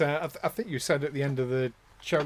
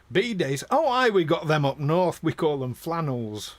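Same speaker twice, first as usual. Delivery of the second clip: a lightly put-on broad Yorkshire accent, a bit louder; deadpan Yorkshire accent, dry and blunt; 4 dB louder than usual. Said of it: "in my broadest Yorkshire accent".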